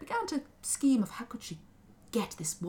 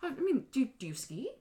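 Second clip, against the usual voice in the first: laughing, higher incredulous question; amused disbelief; 6 semitones higher than usual. A narrator's reading. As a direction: ask through a laugh. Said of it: "had to ask".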